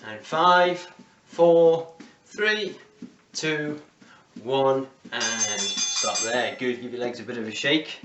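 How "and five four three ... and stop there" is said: countdown call. Real, not acted. Coach counting down the seconds.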